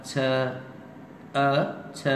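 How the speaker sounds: "छ" puffed, ending in a short schwa; aspirated ch, open ending. Shown as a demonstration. Teacher isolating the last syllable, aspirated ch without r. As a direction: end "छ" on a bare vowel, no r. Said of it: "उसको आप कहें छ".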